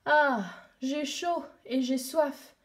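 lent, las, assoiffé; plainte de chaleur. Acted. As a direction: soupire ta soif, lentement. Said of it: "ai-je dit tout haut". (plainte lente et lasse)

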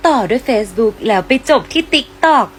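very slow, savoring each app; dragged out slowly. Acted. Night scroller slowly listing every app she opens. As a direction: stretch the words lazily.

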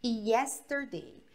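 slow, careful classroom model; slow model sentence. Shown as a demonstration. Teacher models the sentence slowly for the class, slow. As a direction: spell it out slowly for the students. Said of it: "olha essa frase aqui".

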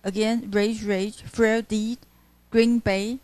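each pair stressed evenly, slowly; double stresses. Shown as a demonstration. Teacher listing spondees, each word stressed. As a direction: space out "rage, rage, frail deed" with equal weight.

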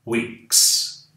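"weeks" with a crisp hissed s, no buzz; voiceless s in weeks. Shown as a demonstration. Teacher to Brazilian students, hissed s after k. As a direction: end "weeks" on an unvoiced s. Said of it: "Som de S depois do K".

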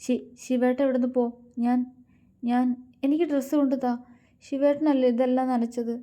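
sulky high-pitched protest; flustered protest. A narrator's reading. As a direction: shoo him away, flustered and cross. Flustered wife sending husband away, complaining.

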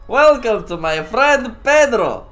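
loud, drawn-out announcer-like yell; hammed-up shouted welcome; playful shout. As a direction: shout the welcome, slow and big. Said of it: "Let me shout!".

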